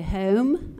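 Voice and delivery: South Philly "Home" stretched and rising, with a trailing "a" (homa); drawn-out South Philly "Home" that lifts at the end; South Philadelphia accent. Shown as a demonstration. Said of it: "Some of the sounds that ... epitomize that region of Philadelphia is you say".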